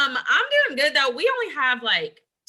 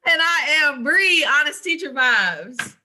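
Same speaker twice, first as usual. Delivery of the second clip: show intro; 3 semitones higher, 4 dB louder, slower than usual. Acted. Co-host introduces herself on air.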